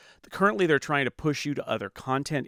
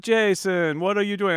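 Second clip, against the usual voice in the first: higher, louder scolding boss; imitated boss; 7 semitones higher, 6 dB louder than usual. Imitating the boss calling to a worker, higher and louder. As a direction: call him out like the boss. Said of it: "she'd be like".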